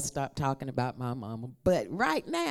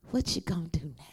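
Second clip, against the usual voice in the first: whispered repeat; much faster than usual. Shown as a demonstration. Preacher whispering the repeated line to the congregation. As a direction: hush it back to the preacher. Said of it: "y'all have to repeat after me".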